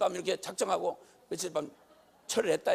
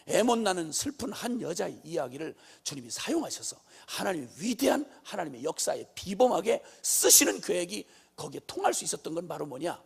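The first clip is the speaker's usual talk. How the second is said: usual speaking voice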